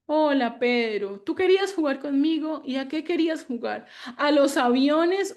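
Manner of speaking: put-on animated, playful voice for a toddler; playful parent. Shown as a demonstration. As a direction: play along with the child's game. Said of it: "voy a ponerle Pedro".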